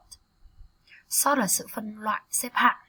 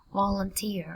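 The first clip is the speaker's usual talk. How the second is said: Volunteer with the weight on "teer"; stress on third syllable; slower than usual. Shown as a demonstration. Teacher models stress for students, Volunteer stressed on "teer". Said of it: "Trọng âm dần chữ thứ ba".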